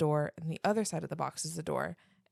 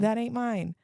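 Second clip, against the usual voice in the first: higher-pitched mock protest of innocence; acted-out denial, pitched up; childhood denial; 4 semitones higher, 4 dB louder, slower than usual. Speaker acts out disowning the accident to parents, mock protest. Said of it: "And I would just be like".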